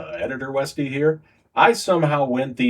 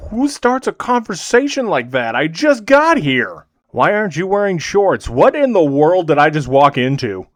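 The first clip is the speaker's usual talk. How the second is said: baffled exasperation; 3 semitones higher, 5 dB louder than usual. Real, not acted. Baffled reaction to the trainer.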